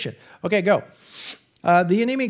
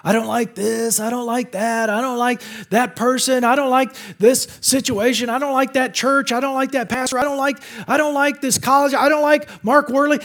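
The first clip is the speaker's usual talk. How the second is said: sing-song list of complaints, climbing in pitch; put-on grumbler working up a rant; mock griping; 2 semitones higher than usual. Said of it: "They gripe".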